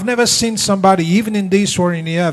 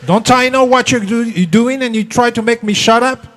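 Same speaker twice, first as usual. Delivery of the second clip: louder, higher indignant yell; mock yell; 5 semitones higher, 5 dB louder than usual. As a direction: shout back, offended. Angry wife yelling.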